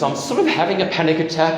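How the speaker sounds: laughing. Real, not acted. Laughs at his own drugged flight.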